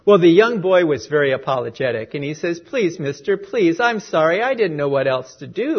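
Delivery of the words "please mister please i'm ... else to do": put-on pleading boy. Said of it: "he pleaded".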